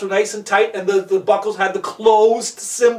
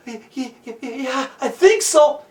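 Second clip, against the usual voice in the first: shaken stammer. Acted. Walter to Jonathan after slipping, shaken stammering. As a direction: stammer several times before getting it out.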